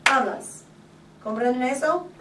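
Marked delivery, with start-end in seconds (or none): 0.0-0.6 HABLAS stressed on the first syllable. Shown as a demonstration. Teacher repeating for students, HABLAS with stressed first syllable. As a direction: punch AB in "Hablas" and let LAS fall. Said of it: "when I say the word, I say".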